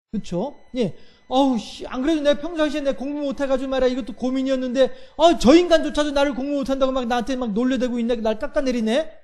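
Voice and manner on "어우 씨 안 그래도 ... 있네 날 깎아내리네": mild mock grumble. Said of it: "화가 나겠죠".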